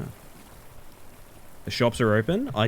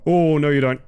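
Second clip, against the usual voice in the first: loud, pitched-up warning; defiant cry; 3 semitones higher, 6 dB louder than usual. Real, not acted. Player warning a fleeing enemy, loud defiant call.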